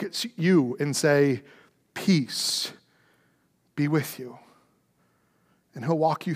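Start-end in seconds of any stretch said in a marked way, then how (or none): 1.9-4.4 soft whisper of peace; a whispered benediction; whispered blessing. Acted. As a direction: whisper it like a comfort. Closing blessing to congregation.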